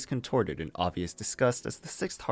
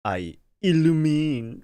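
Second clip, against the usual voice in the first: dramatic; 7 semitones higher, 4 dB louder, much slower than usual. Shown as a demonstration. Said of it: "Wait, is this even".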